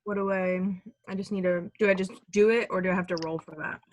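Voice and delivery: talking while eating chips; crunching chips. Real, not acted. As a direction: mouth full of chips. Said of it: "Sorry, I'm eating chips".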